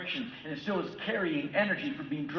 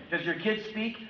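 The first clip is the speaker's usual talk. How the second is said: loud mock-brisk doctor prescribing; hammed-up quick doctor handing out pills; mock doctor dialogue; 3 semitones higher, 8 dB louder than usual. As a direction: bark the prescriptions, much louder. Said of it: "they're just giving Ritalin to kids like".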